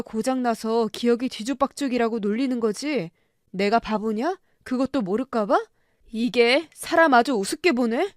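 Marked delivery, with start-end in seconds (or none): 6.1-8.1 louder, scornful taunt; husband sneering at his wife, louder; angry jab. Acted. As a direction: snap back in contempt.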